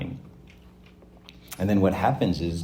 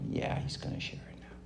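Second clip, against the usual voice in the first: whispered, firm insistence; 13 dB quieter than usual. Acted. Parent quietly insisting the child shares, whispered. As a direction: hush it but don't budge.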